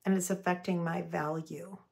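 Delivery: gentle declarative feeling statement; soft hurt I statement. Shown as a demonstration. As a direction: speak the hurt softly, owning it.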